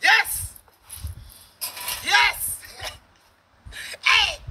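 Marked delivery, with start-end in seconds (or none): none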